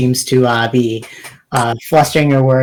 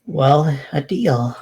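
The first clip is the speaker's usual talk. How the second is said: resigned confession. Acted. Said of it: "sighs and says".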